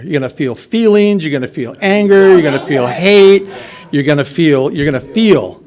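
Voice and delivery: each "feel" phrase punched, easing off at the end; emphatic listing. Retold or imitated. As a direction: hammer home "feel" like an insistent sponsor. Sponsor hammering home the word feel.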